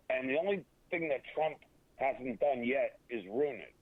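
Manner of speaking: "yet" leaned on in a slowed phrase; stress on yet. Real, not acted. Guest qualifying his point about Trump and the economy, stress on "yet". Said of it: "I emphasize the word yet".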